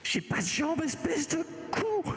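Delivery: high, slow grumpy card; grumpy talking card. Acted. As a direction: drag out the insult. Card insults the player.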